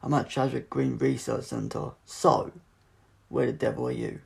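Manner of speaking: loud, delighted phone greeting; Doctor thrilled to reach Martha on the phone; voice ringing out. Acted. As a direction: call out brightly down the line. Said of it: "The doctor's voice rang out clearly".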